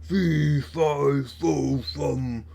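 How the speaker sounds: a bellowed giant chant; giant bellowing. A narrator's reading. Giant sniffing out Englishman, a bellowing chant.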